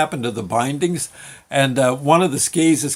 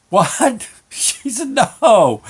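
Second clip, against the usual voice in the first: startled, higher-pitched retort; mock-shocked mother; 8 semitones higher, 4 dB louder, much slower than usual. Mom reacting to kid's bathroom plea, mock-shocked. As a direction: hit it like an exasperated mom.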